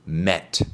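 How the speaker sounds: "Met" said with a short e; teacher modelling "Met" with a short e; model pronunciation. Shown as a demonstration. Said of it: "su pronunciación suena así".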